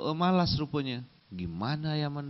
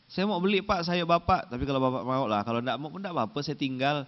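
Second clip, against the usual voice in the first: haggling housewife; faster than usual. Retold or imitated. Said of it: "kerjaan emak-emak".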